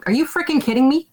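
mock outrage at the umpire's dinner invite; retold angry protest. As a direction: tell him off, half-laughing in the retelling. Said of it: "and I'm mad".

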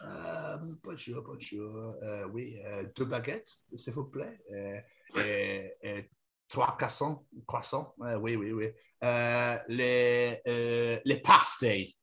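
soft, hesitant mock French accent; quiet French accent, searching for words; French customer. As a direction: order at a bakery in halting, put-on French. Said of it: "the French go into a boulangerie and are like".

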